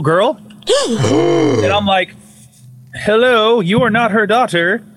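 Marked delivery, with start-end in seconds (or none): 3.0-4.8 higher, surprised hello; startled greeting. Retold or imitated. To the girl on camera, a high startled hello. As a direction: greet her brightly, caught off guard.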